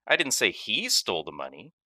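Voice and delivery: "he" given the weight, the rest even; stress on he. Shown as a demonstration. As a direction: lean on "he". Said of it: "based on which word carries the emphasis".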